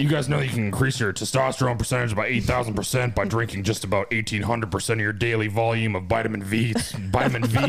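fast, pushy supplement pitch in a host voice; hard-sell the vitamins like a radio huckster; Alex Jones. Acted. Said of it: "Alex Jones".

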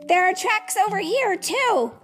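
put-on high young-animal voice, calling. A narrator's reading. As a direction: call over to friends in a high voice. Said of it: "he called".

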